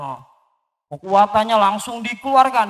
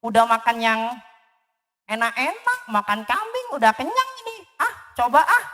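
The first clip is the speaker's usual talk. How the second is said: squeaky mouse voice; 2 semitones higher, faster than usual. Acted.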